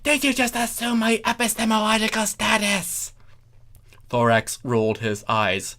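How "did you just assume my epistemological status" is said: high, affronted character voice; offended Chrysalis. A narrator's reading. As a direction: play her as scandalised and triggered. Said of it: "Chrysalis said".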